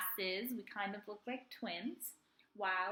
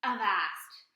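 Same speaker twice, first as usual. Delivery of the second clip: pirate cry; 8 dB louder than usual. A narrator's reading. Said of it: "cried Black Ear".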